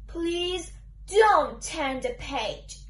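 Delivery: slow, spaced-out request, each word distinct; very clearly. Acted. Book character repeating the plea to the reader, very clearly. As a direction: say it slowly and very clearly, pitched low. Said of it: "I'll say it once more, very clearly".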